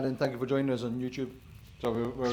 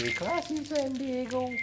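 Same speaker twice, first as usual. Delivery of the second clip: much higher, held announcer voice; mock anchorman; 13 semitones higher, slower than usual. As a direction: ham it up like a TV anchor. Quoting Anchorman line.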